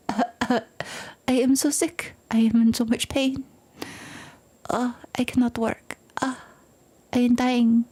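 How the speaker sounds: fake sick voice. Fake sick voice to the boss at day's end. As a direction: whine like you're too ill to work. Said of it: "That's the voice I give my boss".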